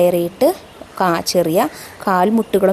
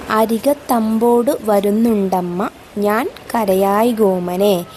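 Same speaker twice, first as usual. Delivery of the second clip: slow, measured verse reading with drawn-out vowels; poem recitation; slower than usual. Acted. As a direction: recite the verse slowly, lingering on phrase ends. Recites verse before explaining.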